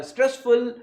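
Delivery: "stressful" slow and drawn out; slow, weighted stress on "stressful". Shown as a demonstration. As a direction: stretch "stressful" with firm weight.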